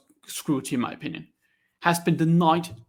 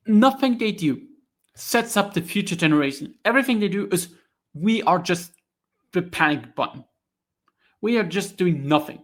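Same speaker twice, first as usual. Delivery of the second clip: raging rant; 3 semitones higher than usual. Real, not acted. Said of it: "I'm just so raging like that".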